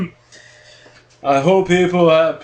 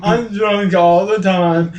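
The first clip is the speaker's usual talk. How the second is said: laughing; slower than usual. Acted. Drunk character laughing.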